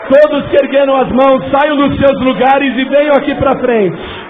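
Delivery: loud, high, impassioned altar call; preacher roaring over the congregation; fervent preaching. Acted. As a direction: cry out the altar call to the crowd. Altar call at full force.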